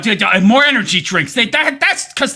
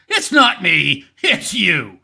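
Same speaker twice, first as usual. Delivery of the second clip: low-pitched mock blame-shifting; low mocking denial; George Costanza; 9 semitones lower, slower than usual. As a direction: deliver it as a deep, deadpan motto. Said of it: "George Costanza School of Philosophy".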